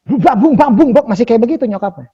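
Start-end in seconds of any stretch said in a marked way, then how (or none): 0.0-1.0 lightly imitating a mouthy mum, higher; blunt, stubborn mother. Host imitating the mother's blunt chatter, slightly higher. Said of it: "ceplas-ceplosnya gitu, ngeyelnya gitu".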